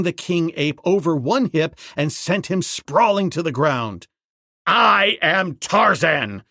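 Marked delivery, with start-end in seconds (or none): 4.7-6.4 slow, loud and high claim; Tarzan shouting. Acted. Ape man standing over the fallen king, slow shout. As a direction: call out your title slowly. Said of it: "he shouted".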